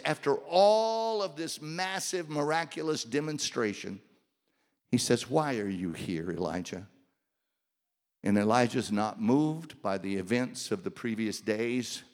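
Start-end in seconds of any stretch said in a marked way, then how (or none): 5.3-6.9 softer and lower, a hushed God; still small voice. Acted. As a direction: ask it gently, almost in a murmur.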